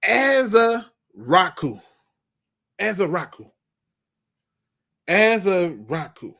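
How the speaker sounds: "Azarocco" drawn out slowly, a-za-RO-ku; struggling with a name. Real, not acted. Fan stumbling over "Azarocco", slowly. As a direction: sound out "Azarocco" syllable by syllable. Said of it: "embarrassing myself".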